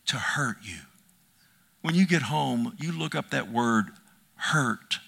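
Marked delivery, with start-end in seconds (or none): 0.1-0.8 whispered softly to close the promise. Acted. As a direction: breathe the words like a secret. Jesus promising Paul safety.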